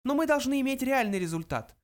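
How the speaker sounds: high, insistent little voice; high-pitched emphasis; emphatic mouse. A narrator's reading. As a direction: press the point as a tiny mouse. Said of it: "подчеркнул Фрэнки".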